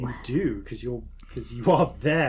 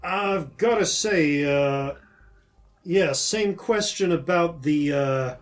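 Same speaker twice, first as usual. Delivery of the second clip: curious orc governor; 5 semitones higher, 7 dB louder than usual. Acted. Governor asks about the teeth.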